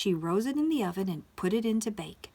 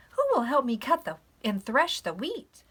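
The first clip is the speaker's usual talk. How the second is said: raised, lilting storybook hen; asking hen; 4 semitones higher, 6 dB louder than usual. Acted. Little Red Hen asking for threshing help, calling out. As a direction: call out the question brightly to friends.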